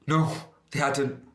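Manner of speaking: indignant, drawn-out no; snorted denial. Acted. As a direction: scoff at the very idea. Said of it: "I snorted".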